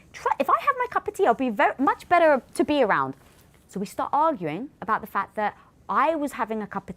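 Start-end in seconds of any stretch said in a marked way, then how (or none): 0.1-3.1 much higher, quick coaxing plea; pleading. Retold or imitated. Wife retelling how she begged her husband for tea. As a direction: coax him to let you finish.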